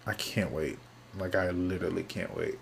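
yawning through the words. Real, not acted. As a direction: talk mid-yawn, sleepy. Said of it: "I'm yawning so much".

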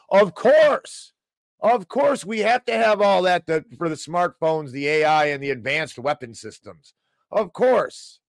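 sneering sarcasm, high and loud; sarcastic. Real, not acted. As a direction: scoff at it with exaggerated mock agreement. Mocking government spending on weapons.

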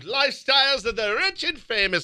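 a first go at Robin Leach with a stray Irish lilt; mock celebrity host, Irish-flavoured. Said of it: "I don't know why I made him Irish".

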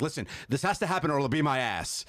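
a touch of frantic assistant; panicked assistant. Retold or imitated. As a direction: sound like your job is on the line. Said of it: "I would talk in that voice".

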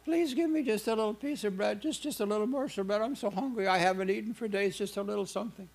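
high pleading beggar voice; desperate beggar girl pleading; begging girl. Acted. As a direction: plead high and small for a crumb. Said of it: "she was begging".

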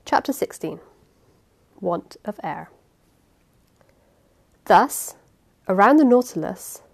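measured storybook reading; story narration. A narrator's reading. Reader opens the chapter for listeners, measured narration. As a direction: read the novel aloud to listeners. Reads novel aloud.

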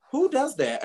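squeaked up in disbelief; outraged high question. Retold or imitated. Scolding a friend at the table, outraged disbelief. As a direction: throw it at him in disbelief. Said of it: "I said".

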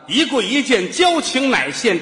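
high, loud recitation of a saying; hammed-up formal declamation; declaiming. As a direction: proclaim it like an old proverb. Declaimed proverb on friendship.

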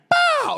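high-pitched mock punch sound; explosive pow. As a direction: fire off a big, high "pow". Imagined argument, landing a blow.

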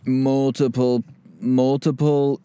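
nervous drawn-out repeating of "Multiple"; spelling bee kid. Shown as a demonstration. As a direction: stall on "Multiple" like a stuck speller. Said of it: "that's me trying to spell multiple at a spelling bee".

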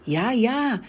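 lightly suggested pony whinny; neighing. A narrator's reading. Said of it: "wieherte Filou". (leicht angedeutetes Wiehern)

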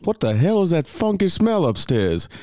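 high indignant father voice; exasperated dad. Retold or imitated. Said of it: "the dad would come home like".

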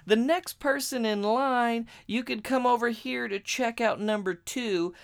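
sing-song clerk calling the next in line; cashier calling. Retold or imitated. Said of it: "when they say".

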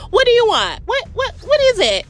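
high, loud, impatient snapping at the customer; impatient nail tech. Retold or imitated. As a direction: fire off the questions, exasperated.

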